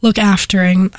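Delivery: hoarse, under-the-weather voice; talking through a cold; sick voice. Real, not acted. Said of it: "I think that my voice right now sounds like".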